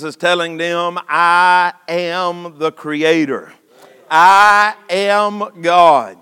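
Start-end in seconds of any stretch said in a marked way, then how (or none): 1.1-6.2 solemn divine declaration. Acted. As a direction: declare it weightily as Jesus. Voices Jesus declaring his divinity.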